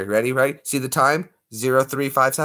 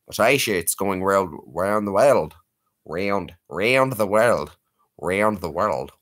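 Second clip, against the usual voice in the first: Aussie accent try; 3 semitones lower, slower than usual. Shown as a demonstration. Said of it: "how you would say world with an Aussie accent".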